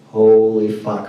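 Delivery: slow, drawn-out amazed exclamation; awestruck. Retold or imitated. Reacting to a hot man walking by, awestruck. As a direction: stretch it out in retold awe.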